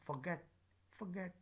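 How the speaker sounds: "forget" with a weak, unstressed first syllable. Shown as a demonstration. Teacher drilling weak forms, unstressed O in "forget". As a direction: pass lightly over "for" to stress "get" in "forget". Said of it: "here is no stress on O".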